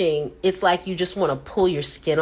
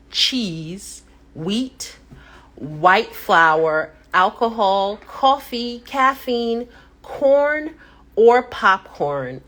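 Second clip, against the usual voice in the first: list read out; slower than usual. Retold or imitated. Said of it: "it says".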